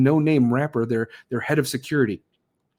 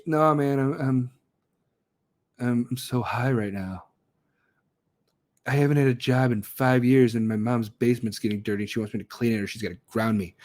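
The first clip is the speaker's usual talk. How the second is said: lazy stoner; 4 semitones lower than usual. Retold or imitated. Mocking a stoner slacker.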